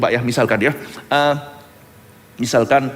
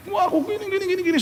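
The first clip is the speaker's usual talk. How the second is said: much higher, softer mock whine; whiny pleader; 5 dB quieter, faster than usual. Preacher mimics a person begging for sympathy, high mock whine. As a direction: imitate someone pleading their sad story.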